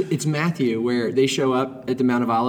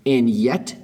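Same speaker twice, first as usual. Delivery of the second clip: movie trailer voice; 2 semitones lower, much slower than usual. Shown as a demonstration. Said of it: "a movie trailer voice right there".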